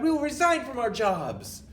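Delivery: very high, loud shrill cry; squealing witch chorus. Acted. Witches answering their leader, very high and loud. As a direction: squeal eager agreement. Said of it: "they cried".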